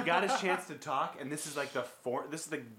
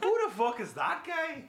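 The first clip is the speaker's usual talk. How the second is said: much higher, laughing bad Irish accent; imitating McGregor's Irish accent, laughing; mock Irish accent; 12 semitones higher, 6 dB louder than usual. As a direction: quote McGregor in a hammed Irish brogue. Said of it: "That's such a bad accent".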